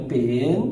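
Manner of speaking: পেন stretched as a single beat; one drawn-out syllable. Shown as a demonstration. Teacher demonstrates the first syllable, পেন drawn out alone. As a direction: hold the vowel of পেন in one long syllable. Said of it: "একবার উচ্চারণ আমরা শুধু পেন উচ্চারণ করতেছি".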